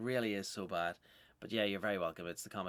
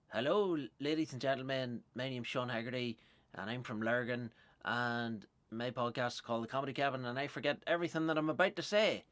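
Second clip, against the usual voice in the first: mock showman intro; 3 semitones higher than usual. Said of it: "I come out and I go".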